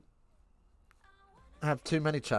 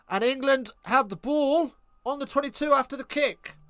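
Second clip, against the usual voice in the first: raised-pitch match commentary; live play-by-play; 8 semitones higher than usual. Real, not acted. Commentator updating viewers on England's kick, lifted play-by-play. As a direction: call the play over the chat.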